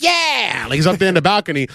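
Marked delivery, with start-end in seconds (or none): 0.0-0.7 high whooping yeah; a quick raised hoot; mock cheer. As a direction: cheer from up in the balcony. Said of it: "you hear Dave go like".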